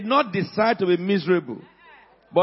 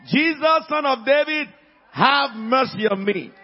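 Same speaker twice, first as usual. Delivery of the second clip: high, loud call, slowing at the end; insistent shouted plea; 4 semitones higher, 4 dB louder than usual. Retold or imitated. Blind man defies the crowd, shouting the more. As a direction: call out harder for mercy. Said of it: "He shouted the more".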